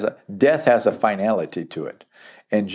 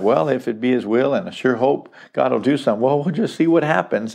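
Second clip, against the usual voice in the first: doubtful hedging; 2 semitones higher, faster than usual. Retold or imitated. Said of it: "they weren't talking like that".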